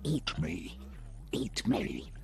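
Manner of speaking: soft, creepy whisper. Acted. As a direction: whisper it like hungry fingers.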